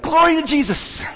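very high imitated old gal's cry; shouted praise. Little old gal inspired by the pastor, shouting praise. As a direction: whoop it out from the pew. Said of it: "the little old gal shouted".

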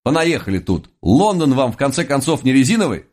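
indignant. Acted. Narrator's indignant outburst.

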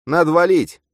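high, loud, urgent character voice; high-pitched excited shout; panicky double. A narrator's reading. Urgent call to flee a fire.

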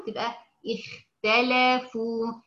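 اختلفوا with the خ only half heavy, slow; lighter kha. Shown as a demonstration. Teacher showing relative emphasis on the خ. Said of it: "هيقل التفخيم بتاعه يصبح تفخيم نسبي".

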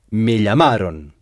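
me llamaron with the ending -ron clearly heard; teacher models the clear ending. Shown as a demonstration. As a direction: make the ending -ron ring out. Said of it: "bien entendre la terminaison".

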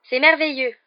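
enthousiasme un peu forcé, haut et fort; s'exclamer avec un entrain appuyé; exclamation enthousiaste. A narrator's reading. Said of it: "s'exclama Hermione". (Hermione feint l'enthousiasme devant Hagrid, exclamation haute et forte)

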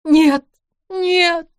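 громкий высокий рыдающий крик; выкрикни «нет» сквозь рыдания; рыдая. Acted. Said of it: "прорыдала женщина". (вдова отвергает утешение: рыдающий крик)

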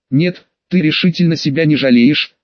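ordinary delivery

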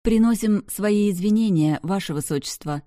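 high, loud mock-formal apology; bow it out with theatrical flourish. A narrator's reading. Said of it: "театрально поклонилась я".

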